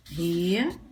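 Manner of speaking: "Retrato" in three pieces with long pauses, re... tra... to; syllable division. Shown as a demonstration. Teacher dividing the word for pupils, "Retrato" in separated syllables. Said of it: "Vamos fazer a divisão silábica".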